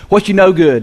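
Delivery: demonstrated Southern greeting; folksy Southern accent; Southern dialect. Shown as a demonstration. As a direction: say it like a Tennessee local. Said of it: "in Southern dialect".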